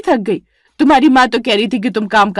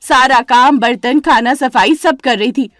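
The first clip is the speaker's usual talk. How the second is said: higher, louder protest of years of work; aggrieved outcry; 4 semitones higher, 4 dB louder than usual. Acted. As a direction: plead loudly, wounded. Vimla complains to mother-in-law. (शिकायत भरी ऊँची आवाज़ में)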